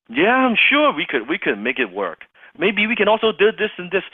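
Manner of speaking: high, loud, insistent reassurance; eager prospect. Retold or imitated. Prospect persuading a doubtful closer, eager.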